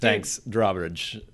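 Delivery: very slow Walken-style thanks; Chris Walken impression. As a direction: drag out the words like Walken. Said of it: "a pretty good Chris Walken".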